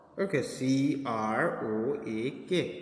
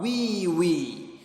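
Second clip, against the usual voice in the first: a mock pig squeal, lightly voiced; piglet squeal; 4 semitones higher than usual. A narrator's reading. Teacher reading the pig's cry to the class, mock squeal. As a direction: crow it out like a little pig. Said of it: "he crowed aloud".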